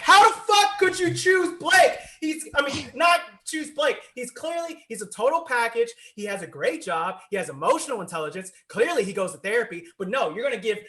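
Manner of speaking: high, worked-up mock rant, shouted at first; yelling at TV. Viewer re-enacts raging at a dating show, yelling. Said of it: "yelling at my T V".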